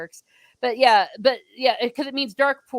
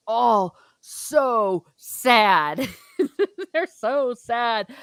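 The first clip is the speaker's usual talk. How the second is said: laughing; 3 dB louder, much slower than usual. Real, not acted. Laughs about sad Irish songs.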